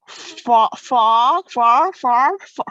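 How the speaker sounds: frog said as "far", with no r and no o, over and over; failed attempt at frog. Shown as a demonstration. Friend keeps failing to say frog, repeating "far". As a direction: keep trying to say frog but it comes out "far". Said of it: "ask me to speak some word I can't pronounce".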